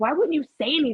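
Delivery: screamed outburst kept small and contained. Recounting screaming at their mother, with their daughter on speaker, retelling a scream. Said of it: "I'm literally like screaming at her".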